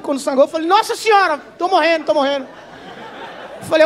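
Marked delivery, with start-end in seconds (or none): 0.7-2.5 high comic alarm; mock panic. Patient seeing himself bleed, mock panic. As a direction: cry out high, playing up the alarm.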